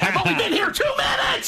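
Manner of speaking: very high, hammed-up scream; screamed mock panic. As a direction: wail it at the top of your voice. Screamed comic bit among laughing hosts.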